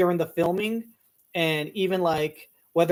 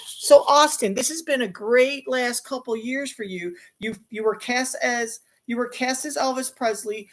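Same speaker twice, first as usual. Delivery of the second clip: higher-pitched, eager red-carpet host; award-show interviewer; 4 semitones higher than usual. Acted. Interviewer asks Austin about the project, upbeat host voice. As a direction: play a chirpy interviewer, pitched up.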